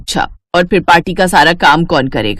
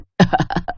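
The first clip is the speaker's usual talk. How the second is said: evil chuckle; 5 dB quieter than usual. Acted. Scheming stepmother laughs.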